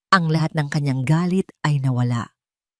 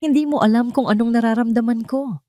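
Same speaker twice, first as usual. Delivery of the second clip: higher, raised voice of hurt anger; anguished shout at his mother; 7 semitones higher than usual. Acted. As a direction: keep yelling at her. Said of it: "sigaw ni Gabriel".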